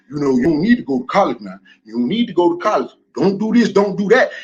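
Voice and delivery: dismissive imitation of the "don't go to college" crowd, pitched low; mock adviser voice. Mocking advisers telling people to skip college.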